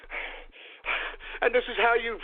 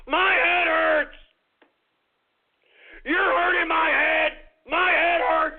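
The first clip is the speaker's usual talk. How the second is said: mock anguished yell; 4 semitones higher, 3 dB louder, slower than usual. Comic meltdown on air.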